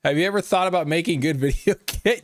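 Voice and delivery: reading the comment through a giggle; can barely get the words out for laughing; laughing while reading. Retold or imitated. Streamer reads a fan's reply to chat, laughing.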